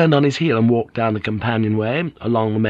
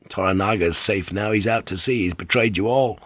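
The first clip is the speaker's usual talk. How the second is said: bitter. Acted. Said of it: "was asking bitterly".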